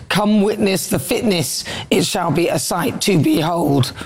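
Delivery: slow, measured mock-solemn announcement; grandiose quote. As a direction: read it slowly and grandly, like a proclamation. Reading band's grandiose post aloud.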